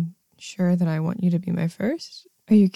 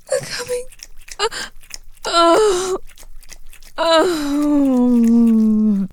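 climax cry; 6 semitones higher, much slower than usual. Acted. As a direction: cry out at the peak. Climax cries.

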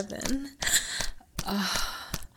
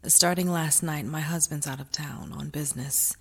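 tender aftercare whisper; 8 semitones lower, 6 dB quieter than usual. Acted. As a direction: soothe her gently in a hush.

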